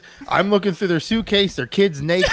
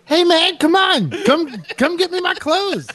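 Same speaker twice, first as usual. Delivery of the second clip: put-on calling out to a kid; 9 semitones higher than usual. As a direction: call up the stairs, half laughing. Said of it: "I'm standing on the stairs".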